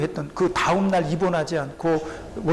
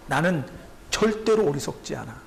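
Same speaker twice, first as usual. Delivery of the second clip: calm certainty; 5 semitones lower than usual. Retold or imitated. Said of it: "바울이 그렇게 얘기를 하고 있는 겁니다".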